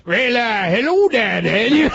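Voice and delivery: squawky cartoon parrot voice. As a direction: play the wisecracking cartoon parrot. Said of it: "I heard you love Gilbert's parrot voice".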